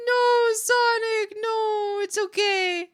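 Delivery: high, drawn-out consoling cry; pleading comfort. Real, not acted. Consoles depressed viewer.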